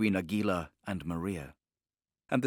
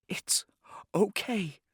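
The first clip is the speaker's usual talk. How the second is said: whispered; 11 semitones higher, slower than usual. A narrator's reading. Sophia whispering comfort to the convulsing Lynch, hushed. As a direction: breathe it, barely audible. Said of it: "she whispered".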